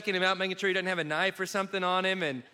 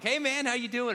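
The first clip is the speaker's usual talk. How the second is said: 1 casual greeting; 7 semitones higher than usual. Retold or imitated. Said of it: "I'm like".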